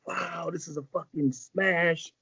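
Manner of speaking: amazed reaction. Retold or imitated. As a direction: imitate a slow, wowed response. Retells Snake's amazed reaction.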